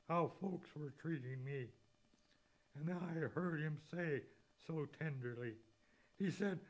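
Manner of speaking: measured poem reading; preacher reading a hymn aloud; hymn recital. Acted.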